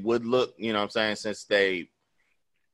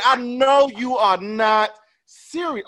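1 slow disbelief; 12 semitones higher, 4 dB louder, much slower than usual. Retold or imitated. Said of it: "I said".

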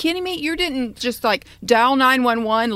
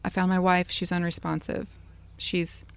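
flat even keel; 3 semitones lower, 5 dB quieter than usual. Retold or imitated. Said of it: "he's very even keel".

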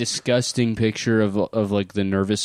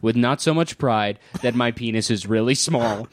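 put-on Filipino accent. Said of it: "I was doing a different voice that whole time".

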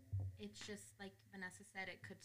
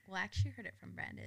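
laughing; 5 dB louder, much faster than usual. Real, not acted.

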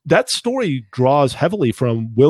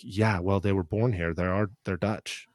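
mock Dutch reply; 4 semitones lower, 9 dB quieter than usual. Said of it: "the Dutch are like".

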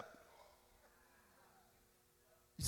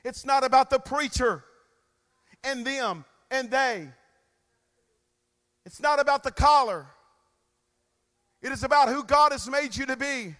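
fiery sermon voice, rising to shouts; preaching. Acted. Preacher fires up the congregation, full force.

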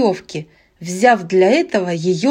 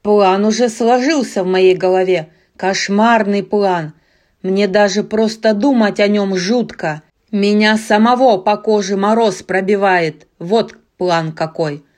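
booming brute; 4 dB louder than usual. Acted. Barbarian boasts of plan.

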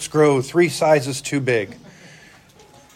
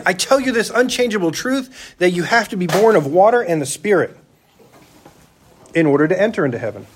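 higher, insistent declaration; earnest Jesus; 3 semitones higher than usual. Retold or imitated. Jesus repeats to Nicodemus, earnest insistence. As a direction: press the truth home. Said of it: "he says again".

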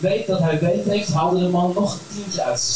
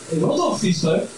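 irritated; 3 semitones higher than usual. Retold or imitated. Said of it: "zei ik geïrriteerd".

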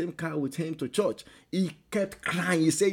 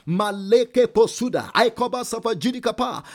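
speaking in tongues; 6 semitones higher, 8 dB louder than usual. Acted. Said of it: "If you can speak in tongues".

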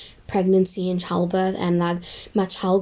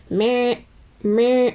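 imitating a newborn cry; 2 semitones higher than usual. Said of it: "I do not know if you know what I'm talking about".

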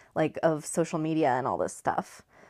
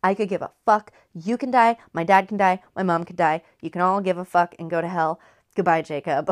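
hammed-up icy defiance, punched words; coldly write everyone off, emphatically; cold as ice; 4 dB louder than usual. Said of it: "Bella is, like, cold as ice".

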